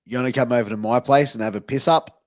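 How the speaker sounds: "piss up" tossed off quickly in an invitation; fast, offhand invitation with "piss up"; casual example sentence. Shown as a demonstration. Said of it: "put it in a sentence".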